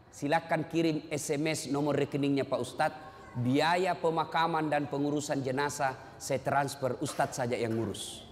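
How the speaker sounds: low, measured businesslike reply; imitated cool indifference, slowing midway; unmoved son. Son coolly offers money instead.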